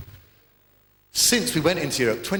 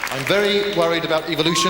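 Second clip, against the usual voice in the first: louder, higher mock worried caveman; lockless man; 4 semitones higher, 4 dB louder than usual. Comic voicing a fossil of lockless man, hammed-up worry. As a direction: whine it like a dim fossil man.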